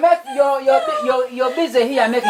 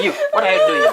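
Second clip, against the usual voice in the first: high, sharp scolding; mock scolding. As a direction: call him out like an angry chief. Chief scolds a villager.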